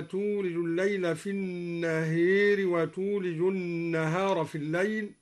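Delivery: first النهار said "an-naheer"; imala on النهار. Shown as a demonstration. Teacher reciting النهار as al-Duri does, with imala. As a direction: tilt the long a of the first النهار towards ee. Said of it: "وأمال النهار من قوله تعالى".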